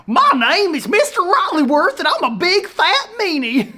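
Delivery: hammed-up bad impression of a mean teacher; mock him in a terrible British accent; Mister Rolliworth. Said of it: "did the bad Mister Rolliworth impression".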